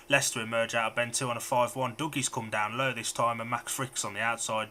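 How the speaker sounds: running play-by-play, lifting with the action; live race commentary. Acted. Commentator calling heat ten to listeners, lively. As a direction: call the race as it unfolds.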